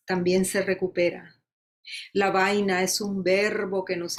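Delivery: rhythmic Spanish ode, each line set apart; poem recitation. Acted. Poet offering her ode to Caribbean listeners, rhythmic recitation. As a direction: recite it as a list, falling at line ends.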